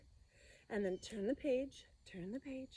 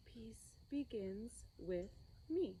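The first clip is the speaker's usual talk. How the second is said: whisper; 6 dB quieter, slower than usual. Shown as a demonstration. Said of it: "say it in a whisper".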